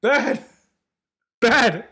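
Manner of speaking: short bursts, like telling off a pet; mock scolding. Voicing the camera telling streamer off, mock scolding. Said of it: "Camera's like".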